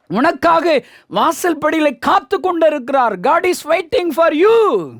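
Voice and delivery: preacher's appeal, pitch climbing high; rousing sermon call; impassioned preaching. Real, not acted. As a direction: proclaim it to the congregation, building to a high ringing close.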